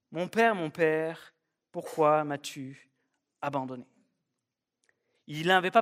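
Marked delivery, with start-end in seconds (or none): 0.1-3.9 anguished plea. Acted. Jesus's real words on cross.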